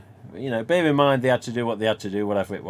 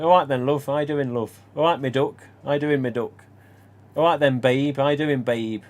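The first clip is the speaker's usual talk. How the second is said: put-on northern English accent; 2 semitones higher, 5 dB louder than usual. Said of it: "may say to their partner".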